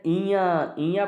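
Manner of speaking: इया pronounced as a nasal consonant, sent through the nose; nasal sound demo. Shown as a demonstration. Teacher shows students a nasal consonant, इया voiced through the nose. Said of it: "आवाज़ जो है वो थोड़ी सी नाक से".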